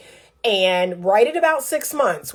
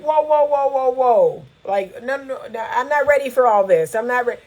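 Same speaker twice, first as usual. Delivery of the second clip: higher, startled mock backing off; backpedaling avoidant man; 4 semitones higher than usual. Imitating the avoidant man pulling away, higher and alarmed. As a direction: throw up your hands, whoa whoa. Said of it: "That's when it's like".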